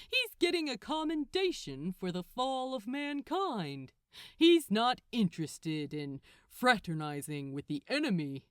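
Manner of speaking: lightly voiced archangel with a touch of smugness; teasing Gabriel. Gabriel mocks Crowley's worry, lightly smug. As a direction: needle him about jealousy.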